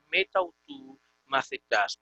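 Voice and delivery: "meta autu" merged into one word, metautu; read with elision. Shown as a demonstration. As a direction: glide from "meta" into "autu" with one a, then "macetas". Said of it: "se prefiere la elisión y se lee entonces".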